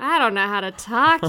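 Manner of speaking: ordinary talk, nothing marked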